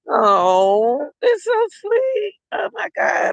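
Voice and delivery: very high, drawn-out coo; touched, near tears. Real, not acted. Onlooker moved by a crying child, high cooing voice. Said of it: "I'm about to cry".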